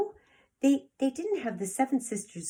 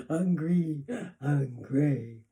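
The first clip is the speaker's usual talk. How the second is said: whimpered; 5 semitones lower, 3 dB louder, slower than usual. Acted. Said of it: "he whimpered".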